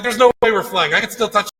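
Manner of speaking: high-pitched retold disbelief; mock freaking out. First-time flyer disputes takeoff with seatmate, mock freaking out. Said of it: "Like, I'm freaking out".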